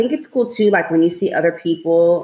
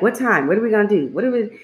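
higher, eager kid questions, lightly voiced; imitating excited son; 4 semitones higher, faster than usual. Mother quotes her son asking about plans, mock excited. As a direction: lightly mimic an excited child's pestering. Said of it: "he's excited too".

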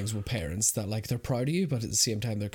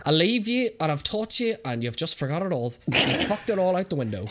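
nagging mum; 4 semitones higher, 4 dB louder than usual. Retold or imitated. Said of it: "it would just be like".

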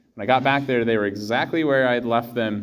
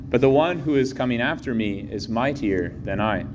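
Gospel reading. Real, not acted.

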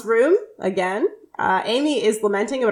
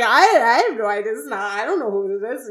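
flustered stuttering; faster than usual. Retold or imitated. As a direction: trip over the first words like someone caught out. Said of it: "he starts stuttering".

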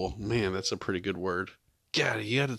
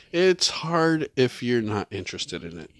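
whisper yelling; 3 semitones higher, 4 dB louder than usual. Real, not acted. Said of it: "Why are we whispering?".

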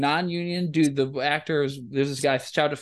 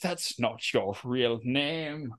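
slow quiet aside; 3 semitones lower, 7 dB quieter, much slower than usual. Retold or imitated. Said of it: "I'm like".

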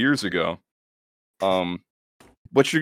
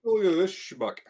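high, soft cartoon voice; high silly voice; 10 semitones higher, 4 dB quieter than usual. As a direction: squeak it out mockingly. Put-on high voice.

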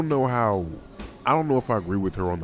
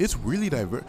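badly imitated Australian, slightly higher; terrible Australian accent; 4 semitones higher than usual. Man imitating an Australian customer's remark, terrible Australian accent. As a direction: have a failed stab at an Australian accent. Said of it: "very, very terrible Australian accents".

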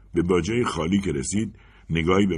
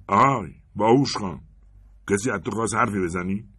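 loud, higher threat; menacing taunt; 4 semitones higher, 4 dB louder than usual. Acted. Robber turning on Anders, taunting him as "باهوش خان". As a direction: lean on "باهوش خان" as a sneer.

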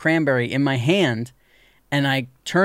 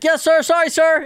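high, louder, overly polite squeak; meek apology; 13 semitones higher, 4 dB louder than usual. Retold or imitated. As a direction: grovel to the cop, eager to please. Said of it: "And I was like".

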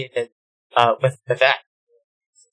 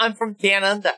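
higher-pitched attempt at an Aussie accent; Australian accent; 5 semitones higher, 4 dB quieter than usual. Shown as a demonstration. Speaker showing friends their go-to phrase for an Australian accent. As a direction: put on Australian vowels. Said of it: "when I do an Australian accent".

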